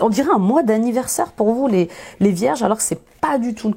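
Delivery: hoarse after shouting yesterday. Real, not acted. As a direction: speak through a hoarse throat. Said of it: "Excusez-moi avec ma voix rauque".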